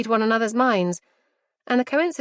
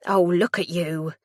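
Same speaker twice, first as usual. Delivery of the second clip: gushing; 3 semitones lower, slower than usual. A narrator's reading. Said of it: "Mum gushes".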